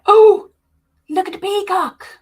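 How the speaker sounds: high, delighted squeal over the peacock; excited. Real, not acted. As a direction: gasp with glee at each pattern. Excited over the pattern pictures.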